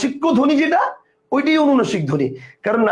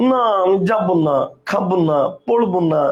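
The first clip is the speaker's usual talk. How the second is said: mock nasal whine, slightly lower; Eva's nasal refusal; 4 semitones lower than usual. Teacher imitating friend's refusals to students, nasal voice. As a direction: mimic someone refusing through the nose. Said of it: "নাক দিয়ে উচ্চারণ করছে".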